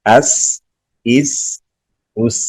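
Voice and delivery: "اس" with a soft, held s and no bounce; soft articulation. Shown as a demonstration. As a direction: let the s of "اس" flow out gently. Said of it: "اس کو نرمی سے پڑھیں گے".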